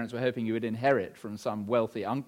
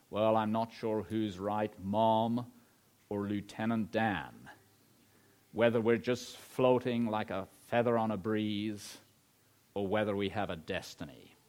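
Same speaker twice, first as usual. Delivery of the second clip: put-on American accent; 3 semitones lower, 3 dB quieter than usual. Preacher quotes Forrest Gump to the congregation, light American accent. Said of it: "sorry about the American accent".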